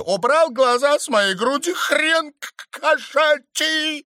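high, loud, stuttering rebuke; growled scolding. A narrator's reading. Stranger catches the count staring, loud high rebuke. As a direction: snap at him, tripping on the insult. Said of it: "рыкнула девица".

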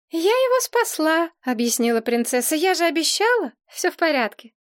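put-on high, girlish princess voice; high girlish princess, pleased with herself. A narrator's reading. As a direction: play the proud little princess.

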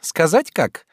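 high, sly teasing question; slyly teasing. A narrator's reading. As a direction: tease him with the question. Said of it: "лукаво дразнила она". (лукаво, дразня)

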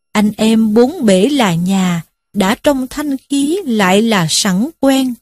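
slow, measured poem recitation; recited verse. A narrator's reading. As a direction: draw out the couplet like a chanted poem. Verse couplet inside the story. (ngâm thơ chậm rãi)

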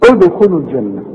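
ادخلوا with a clear echo after the d; qalqalah on د. Shown as a demonstration. Teacher repeating the dal example, qalqalah in ادخلوا. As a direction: pop the د of ادخلوا open. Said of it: "شوف الدال".

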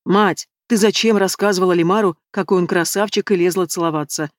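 plain reading voice

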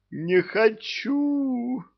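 очень высоко и медленно, писклявый отказ; проскули отказ тонким голоском; жалобный отказ. Acted. Жаба отказывается. (невеста-жаба отказывается)

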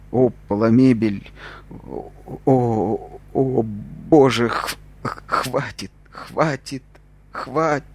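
strained, slow, rising begging to stop; pained pleading. Acted. Beaten prisoner begging the guards to stop, strained and rising. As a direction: beg them to stop through the pain.

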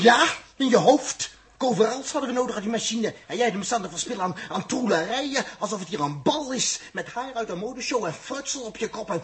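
exasperated telling-off; scolding. Acted. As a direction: tear into her vanity. Husband scolding wife's dress-up.

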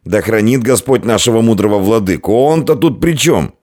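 high, anxious protest; nervous innkeeper, rising to exasperation; flustered pleading. A narrator's reading. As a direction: hastily placate a raging drunk. Frightened innkeeper placating the drunk.

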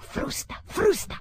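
shouting at the coachman. Acted. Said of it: "Il vetturino diede uno strattone".

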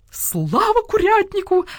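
high, drawn-out rallying cry; slow jubilant shout; triumphant yell. A narrator's reading. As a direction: crow it out like a rooster leading a crowd. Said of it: "заорал Петюня".

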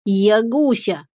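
slow, puzzled drawl. Acted. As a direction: stretch it out, baffled. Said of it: "озадаченно протянул компаньон".

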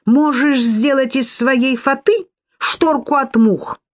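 high, slow scornful jibe. A narrator's reading. Sofya taunts Lidia about her veil, scornful. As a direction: toss off the jibe with disdain. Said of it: "пренебрежительно добавила".

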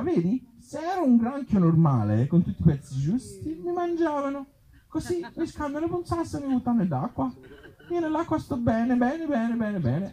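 a small contented creature, squeaky and soft; crab voice. Acted. The headless crab tells why he's happy, high and soft.

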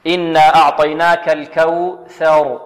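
إنا أعطيناك الكوثر slow, final ر heavy; recitation demo. Shown as a demonstration. Teacher recites verse slowly for class. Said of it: "والراء هنا مفخمة".

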